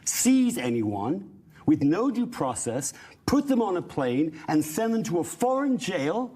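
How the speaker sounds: impassioned, emphatic declaration; passionate. Real, not acted. Panelist denouncing jail without due process, passionate. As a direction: press each point with conviction. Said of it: "he's a little passionate about that".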